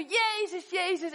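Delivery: high, loud calling of a name; a blind man calling out for help; crying out. Retold or imitated. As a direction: cry out for Jesus from the roadside. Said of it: "En hij schreeuwde".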